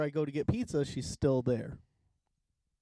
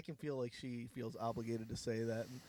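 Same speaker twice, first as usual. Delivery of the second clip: mic cutting out; 5 semitones lower, 8 dB quieter than usual. Real, not acted. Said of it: "it's quiet".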